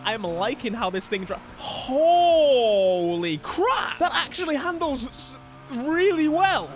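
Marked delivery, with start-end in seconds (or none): 1.6-4.0 long, loud, drawn-out exclamation; amazed outburst. Real, not acted. Amazed by how the car handles. 4.0-6.7 high, impressed outburst; real amazement. Real, not acted. Amazed by how the car handles.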